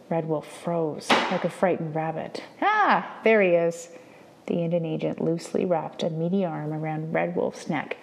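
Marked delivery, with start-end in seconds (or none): 2.6-4.0 high, louder mock-pleased ah; mock delight. Indian Agent spotting Red Wolf, mock delight. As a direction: greet him with false warmth. Agent spots his victim.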